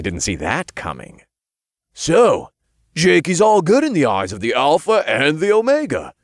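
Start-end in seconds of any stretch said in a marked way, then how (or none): 1.9-6.1 loud, high-pitched interjection; excited imp. A narrator's reading. Imp speaks up for Jake, excited. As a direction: pipe up eagerly for your friend. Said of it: "Todd spoke up".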